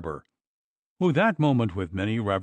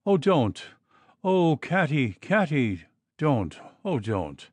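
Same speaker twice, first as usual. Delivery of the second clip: higher, pleading cry that fades; frightened plea; 4 semitones higher than usual. Acted. Mistress begging Katty to stop, frightened pleading. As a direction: beg her to stop, dying away.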